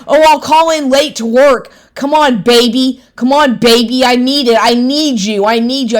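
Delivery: mocking his pleading. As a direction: beg like a pushy boyfriend.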